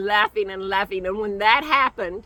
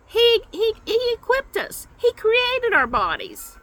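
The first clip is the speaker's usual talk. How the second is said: fervent praise; 11 semitones higher than usual. Real, not acted.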